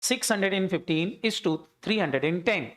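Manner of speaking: each number drawn out very slowly; teacher reading out a ratio; slow dictation. Shown as a demonstration. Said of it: "बांटो जरा".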